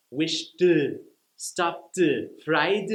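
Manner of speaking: "wished," "stopped," "fried." each with a small added breath after the final sound; trailing extra puff. Shown as a demonstration. Teacher showing learners' stray final vowel. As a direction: let a tiny extra syllable spill after each word. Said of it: "they'll add an extra syllable after the end".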